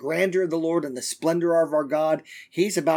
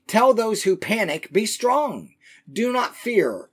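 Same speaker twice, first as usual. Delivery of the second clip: raised, forceful Bible reading; emphatic scripture reading; 6 semitones higher, 4 dB louder, slower than usual. Acted. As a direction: proclaim the verse with higher pitch. Reads scripture aloud emphatically.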